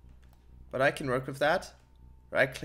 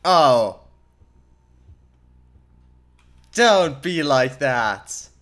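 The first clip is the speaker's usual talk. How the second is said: startled loud gasp, then slow plea; jolted by a scare, pleading slowly; scared horror game streamer; 9 dB louder, much slower than usual. Real, not acted.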